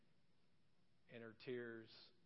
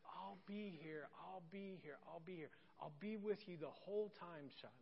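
soft, slightly raised soothing repetition; reassuring; 3 semitones higher, 5 dB quieter than usual. Retold or imitated. Father cuddling his crying daughter at bedtime, gently reassuring. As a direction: comfort a frightened child gently.

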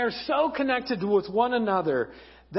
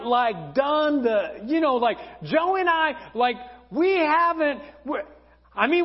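awkward Mary; 5 semitones higher than usual. Acted. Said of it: "Mary's kinda like".

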